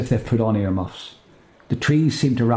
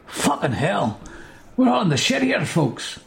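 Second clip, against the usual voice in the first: startled exclamation; 9 semitones higher, slower than usual. Acted. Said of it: "says Crizel".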